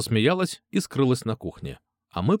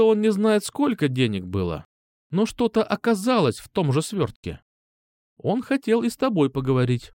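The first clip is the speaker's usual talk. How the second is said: a lightly raised, lively mum chatting; mother's voice; 9 semitones higher than usual. Acted. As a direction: mum excitedly passing on the news, voice lifted. Mother retells neighbour's visit. (мама с лёгким воодушевлением, чуть выше голосом)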